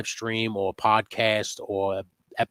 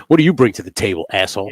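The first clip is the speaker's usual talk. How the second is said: mock challenge; 6 dB louder, faster than usual. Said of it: "acted challenge to the bully".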